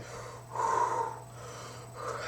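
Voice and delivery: long breathy acted exhale; acted panicked sigh. Panicking before telling his mum, long acted exhale. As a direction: blow out a long nervous breath, re-enacted. Panicking while putting towels away.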